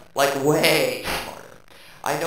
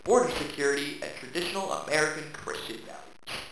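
softer, sunny reassuring take; optimistic; 5 dB quieter than usual. Acted. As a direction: make it sound wholesome. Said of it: "written by an optimist".

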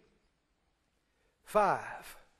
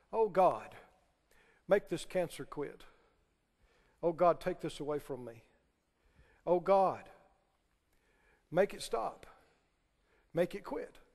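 soft, lower pleading prayer; mock whiny prayer; 6 semitones lower, 6 dB quieter than usual. Preacher mocking believers, soft begging prayer. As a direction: mimic a helpless pray-er.

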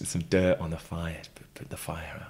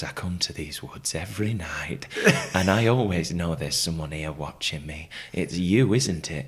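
lightly voiced northern English woman, lower pitch; northern accent; 3 semitones lower than usual. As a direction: slip into a hint of northern English. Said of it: "Did she develop a northern accent as well?".

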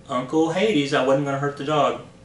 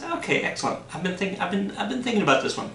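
scheming king voice; 7 semitones higher, faster than usual. Acted. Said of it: "King Eurystheus says".

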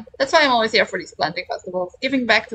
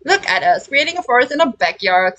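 excited; 6 semitones higher, 3 dB louder than usual. Acted. Happy about the planting.

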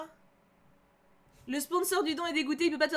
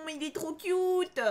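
higher, slow, drawn-out gush; dreamy, drawn-out adoration; 6 semitones higher, much slower than usual. Real, not acted. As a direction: coo over the crush. Fangirling over Nevra.

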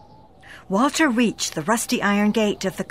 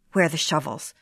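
out of breath; 5 semitones lower, faster than usual. Acted. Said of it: "gasped Walter, almost out of breath".

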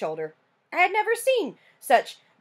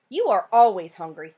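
relieved; 4 dB louder than usual. Acted. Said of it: "in a relieved voice".

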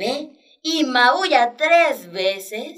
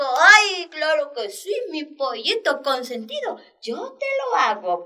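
doting mother hen; 4 semitones higher, 4 dB louder than usual. Acted. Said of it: "Y mamá dijo".

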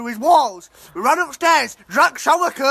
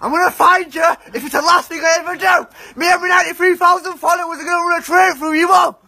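shouted threats. Acted. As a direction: shout it at the culprit.

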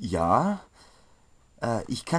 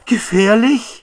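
much higher, loud, slow alarmed cry; frightened squeak; 10 semitones higher, 12 dB louder than usual. Acted. Apprentice shrieks in fear at the dangerous road. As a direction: yelp the word in fright. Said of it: "Erschreckt sieht Netzrot".

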